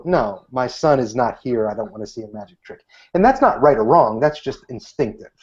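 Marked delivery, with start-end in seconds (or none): 0.0-2.8 dismissive brush-off. Retold or imitated. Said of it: "It's very instinctive for people to go".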